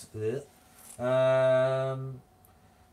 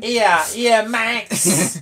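higher, louder mock yeah yeah; teasing disbelief; 8 semitones higher, 11 dB louder, much slower than usual. Real, not acted. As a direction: scoff playfully at him.

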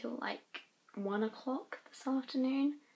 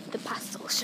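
unvoiced whispered aside; 2 semitones lower than usual. Real, not acted. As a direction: whisper it like a secret.

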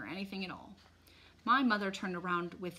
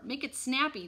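raised, higher-pitched order; calling out; 6 semitones higher, 4 dB louder than usual. A narrator's reading. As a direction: call it to the driver. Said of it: "called to the driver".

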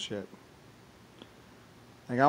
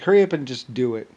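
impatient dare; 7 dB louder than usual. Retold or imitated. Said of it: "It's like".

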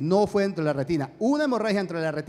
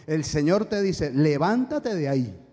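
solemn command; 3 semitones lower, slower than usual. Retold or imitated. Sister delivers God's command.

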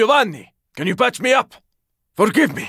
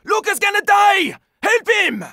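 high desperate cry for help; pleading with the squad to save Luca, desperate; desperate plea; 9 semitones higher than usual. Acted. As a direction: beg the squad to save him. Teammate in danger.

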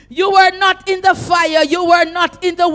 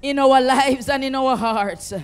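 loud, driving prayer with shouted peaks; full-force preaching; 3 dB louder than usual. Acted.

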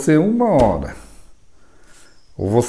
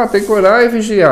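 higher, hammed-up churchgoer line; mock pious saying; 9 semitones higher than usual. Mocking what everyone says about praying and watching. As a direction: parrot the pious phrase.

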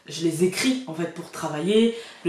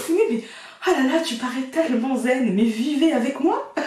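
voix imitée en riant; 5 semitones higher than usual. Retold or imitated.

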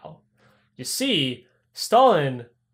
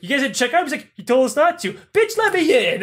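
rising angry goon; 8 semitones higher, 3 dB louder than usual. Acted.

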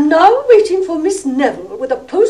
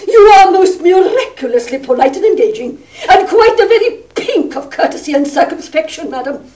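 sarcastic praise; 3 semitones higher than usual. Acted. Mother mocks Miss Neville with sarcasm.

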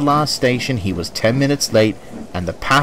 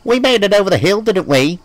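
defiant; 9 semitones higher, 3 dB louder than usual. A narrator's reading. James defiant to driver.

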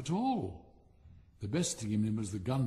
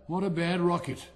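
louder, higher scornful cry; cried out; 4 semitones higher, 6 dB louder than usual. Acted. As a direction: call it a bad rocket with disgust. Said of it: "he cried".

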